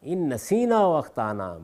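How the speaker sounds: slow, measured Arabic recitation; unhurried scripture reading; Quranic recitation. Real, not acted. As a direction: recite the verse slowly, drawing out vowels.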